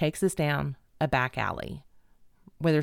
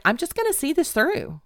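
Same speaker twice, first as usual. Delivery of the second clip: high-pitched, determined resolve; retold resilience; 9 semitones higher than usual. Woman in the van resolves to see it through, resilient. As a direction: voice a stubborn inner pep talk. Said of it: "the resilient part of me was like".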